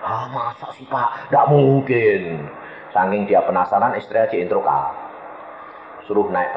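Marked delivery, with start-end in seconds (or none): 0.0-2.2 hushed, then rising disbelief; mildly acted shock. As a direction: play the stunned husband refusing to believe it. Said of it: "Kagetnya luar biasa dia".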